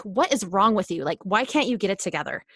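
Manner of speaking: mildly harsh, terse scolding; terse and aggressive. Acted. Negative inner voice berating herself, terse and aggressive. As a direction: play the inner critic, curt and accusing. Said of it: "really terse and aggressive".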